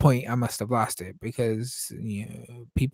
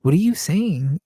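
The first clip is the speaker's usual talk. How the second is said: puzzled challenge; 5 semitones higher, 6 dB louder than usual. Retold or imitated. Coworker questioning his pronunciation.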